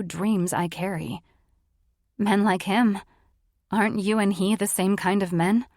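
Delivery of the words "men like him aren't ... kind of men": through gritted teeth. A narrator's reading. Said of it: "I grind the words out through my teeth".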